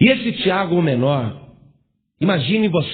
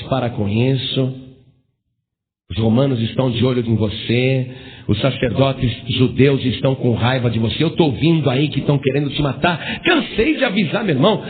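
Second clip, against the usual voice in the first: brother scolding Jesus; 6 semitones lower than usual. Acted. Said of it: "Falava Jesus".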